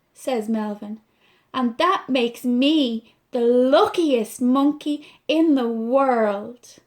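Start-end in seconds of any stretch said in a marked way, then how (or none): 1.5-6.8 a warm, slow last line; tender. Acted. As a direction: savour the happy ending. Melvin happy, tender ending.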